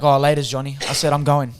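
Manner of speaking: mock angry exit, loud and curt; retold angry walk-out. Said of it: "I got that angry".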